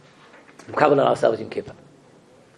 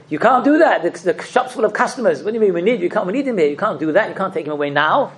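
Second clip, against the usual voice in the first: mock protest; 4 semitones higher than usual. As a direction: protest the angel of death as if shocked. Pleading with the angel of death.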